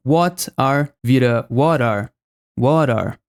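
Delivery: what are, with the t of what flapped into a quick r, wɔɾ ar; fast D flap. Shown as a demonstration. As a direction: link what into are with a tap. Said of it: "fast D". (T vira um R rápido)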